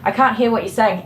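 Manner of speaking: imitating hard-of-hearing man. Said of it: "He's like".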